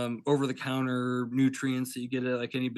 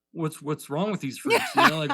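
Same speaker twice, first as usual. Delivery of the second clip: laughing; 3 semitones higher, 5 dB louder than usual. Retold or imitated. Mocking pepper growers' obsession.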